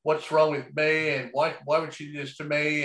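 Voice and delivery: hammed-up self-pity, high and loud on the opening oh; mock a heartbroken sulk that makes it all about himself; self-pitying whine. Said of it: "And they're going".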